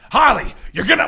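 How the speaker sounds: put-on slipping into Harley Quinn's accent; accidentally borrow Harley's accent; botched Joker with Harley's accent. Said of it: "why do I got your accent?".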